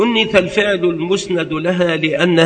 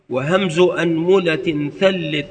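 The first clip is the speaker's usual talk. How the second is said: recited verse. Shown as a demonstration. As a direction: chant the rhyme line by line. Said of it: "كما قيل".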